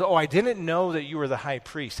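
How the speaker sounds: lightly mock-sorry; sarcastic. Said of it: "he's being sarcastic".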